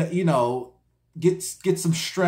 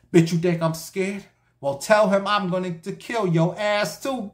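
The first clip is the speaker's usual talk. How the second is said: angry threat; 4 semitones higher than usual. Retold or imitated. Husband threatening wife on phone.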